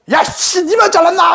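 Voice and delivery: imitating a hot-headed reply; mock angry comeback. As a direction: pick a fight with the rude customer. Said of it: "하면서 막 싸우는 거예요".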